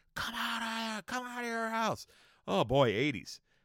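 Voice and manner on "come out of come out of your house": very high, pushed screaming call. Retelling a story about a guy in the backyard, imitating someone screaming. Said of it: "just screaming".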